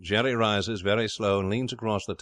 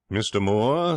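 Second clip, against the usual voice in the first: raised-voice, stiff formal address; dignified; 2 semitones higher, 5 dB louder, slower than usual. Acted. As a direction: address him with offended dignity.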